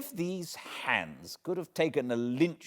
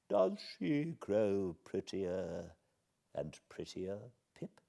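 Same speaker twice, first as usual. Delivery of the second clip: hushed whisper; 6 dB quieter than usual. A narrator's reading. Old lady whispering to Pip about Estella, slow and hushed. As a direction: whisper it greedily to the boy. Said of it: "ask me in a whisper".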